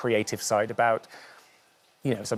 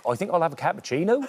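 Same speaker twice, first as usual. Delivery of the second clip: put-on quick, higher-pitched Norfolk accent; 6 semitones higher, faster than usual. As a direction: imitate a Norfolk local ordering coffee. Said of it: "I remember hearing people say".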